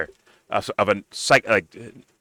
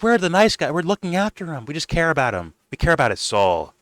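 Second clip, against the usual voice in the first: mock pious; 5 semitones higher than usual. Mocking the hosts' pretended care for him, lightly pious. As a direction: parody the saintly concern. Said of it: "pretending to be like".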